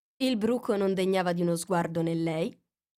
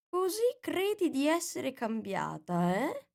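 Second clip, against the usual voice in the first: slow, higher put-on voice; drowsy caterpillar; 7 semitones higher, slower than usual. A narrator's reading. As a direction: ponder it lazily. Caterpillar questions slowly.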